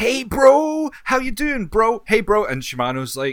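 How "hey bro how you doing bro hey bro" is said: high, loud, each "bro" stretched out. Retelling how Sagawa greets the clan leader: imitating Sagawa. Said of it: "But he's like".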